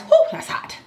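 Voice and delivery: huffing air over hot food; gasping out the heat; hot food in mouth. Real, not acted. Blowing on hot rice.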